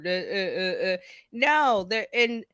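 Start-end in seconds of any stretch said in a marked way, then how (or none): 0.0-1.0 halting mock stammer; mimicking someone suddenly tongue-tied; imitated faltering "uh, uh". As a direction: stumble on repeated uhs, as if lost for words. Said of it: "and all of a sudden you're".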